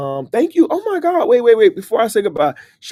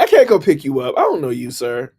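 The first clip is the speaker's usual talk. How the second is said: louder refusal; 5 dB louder than usual. Pretend. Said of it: "Why you responding?".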